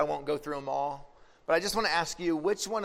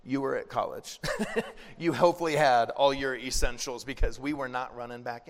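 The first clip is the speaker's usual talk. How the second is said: parents laughing; 3 semitones lower than usual. Retold or imitated. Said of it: "And they're like".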